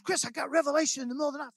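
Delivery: excited report. Retold or imitated. Sister's excited quote.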